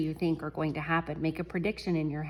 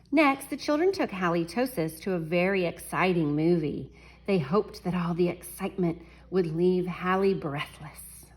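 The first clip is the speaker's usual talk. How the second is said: story reading. A narrator's reading. Reads picture book to class.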